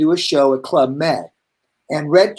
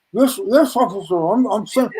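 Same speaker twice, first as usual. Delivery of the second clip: higher-pitched, stammered mock nervous reply; mock flustered; 3 semitones higher than usual. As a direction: imitate yourself flustered before a policeman. Retold flustered reply to policeman.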